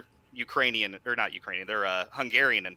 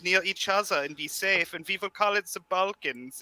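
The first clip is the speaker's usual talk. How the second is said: mock German villain; 5 semitones higher than usual. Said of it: "the German accent sounded evil".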